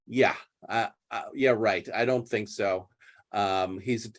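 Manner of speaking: doubt every word he says; sceptical. Retold or imitated. Maria brushing off Toby's praise, sceptical and quiet. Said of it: "Maria is not buying it".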